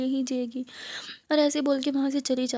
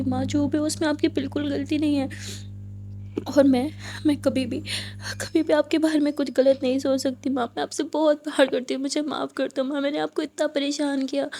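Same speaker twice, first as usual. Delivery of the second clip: crying apology. Acted. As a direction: beg forgiveness through tears. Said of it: "ज़ोरों से रोने लगती है".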